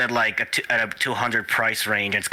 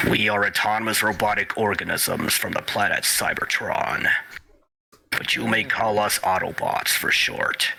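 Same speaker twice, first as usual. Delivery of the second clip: Optimus Prime voice. Shown as a demonstration. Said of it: "do a decent Optimus Prime".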